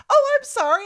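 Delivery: high, loud mock apology; over-apologetic. Passenger shrinking into the seat, high apologetic yelp.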